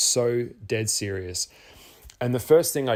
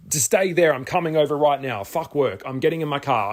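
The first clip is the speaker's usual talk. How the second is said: higher, louder, hurried promise; urgent excitement; 4 semitones higher, 3 dB louder than usual. Retold or imitated. Telling his friend on the phone he's coming over: excited urgency. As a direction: drop everything, you're on your way.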